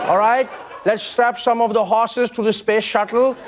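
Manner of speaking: put-on Amish accent. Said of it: "good or bad Amish accent".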